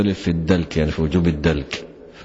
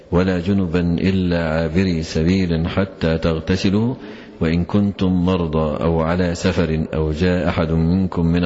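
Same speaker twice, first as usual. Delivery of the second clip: Quran recitation. Acted. Sheikh reciting the verse to his students, measured chant. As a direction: chant each phrase evenly, unhurried.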